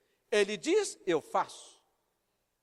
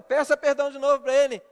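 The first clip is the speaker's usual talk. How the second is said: louder, quick reenacted insistence; insistent command; 2 semitones higher, 7 dB louder, faster than usual. Pastor overruling the wife's objection, loud insistence. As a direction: cut off the objection firmly.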